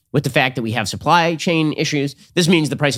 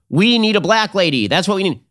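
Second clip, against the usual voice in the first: mock media pundit; 7 semitones higher than usual. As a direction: parody the pundits' demand. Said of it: "the media reactions are all about".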